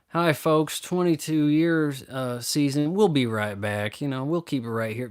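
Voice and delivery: a hint of a folksy talk show host signing off; Doctor Phil impression. Mocking a talk show commercial, light host voice. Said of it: "I saw a commercial for Doctor Phil".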